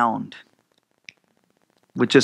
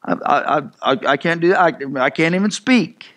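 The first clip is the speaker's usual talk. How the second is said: stuttering. Retold or imitated. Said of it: "he started stuttering".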